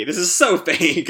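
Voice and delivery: real laugh breaking into the line. Real, not acted. The host laughs at the fake Sonic, real laughter. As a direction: laugh through it.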